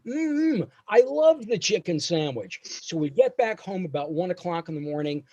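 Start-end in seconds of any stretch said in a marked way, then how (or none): 0.1-2.6 mm-hmm high, faking delight; mock-delighted. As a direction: pretend you loved the sandwich. Rubbing tummy, coached fake line.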